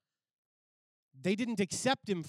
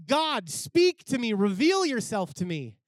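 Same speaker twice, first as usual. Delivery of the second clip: loud, raised-voice plea to God; fervent prayer; 4 semitones higher, 9 dB louder than usual. Acted. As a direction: cry out imploringly in acted prayer.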